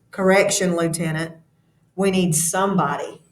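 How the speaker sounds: reading the novel aloud to the class, voicing the officers lightly; classroom story reading. A narrator's reading. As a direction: read it to the students like a chapter of a book. Teacher reads novel aloud.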